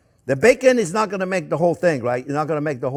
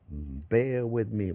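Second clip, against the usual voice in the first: very slow and soft, stretching bear with me; slow drawn-out bear with me; 6 semitones lower, 6 dB quieter, much slower than usual. Real, not acted. Cook begging viewers' patience, slow and drawn out. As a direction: draw it out like a patient plea. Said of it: "Just bear with me".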